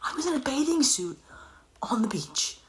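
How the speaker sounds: hushed embarrassed whisper. Shown as a demonstration. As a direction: drop to a secret whisper. Embarrassed beach story, whispered.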